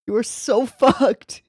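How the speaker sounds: gleeful, laughing through it. Real, not acted. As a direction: laugh in the middle, falling on "fucked". Says it twice, laughing.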